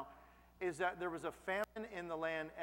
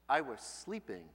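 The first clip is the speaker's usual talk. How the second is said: 1 laughing protest; 5 semitones lower than usual. Retold or imitated.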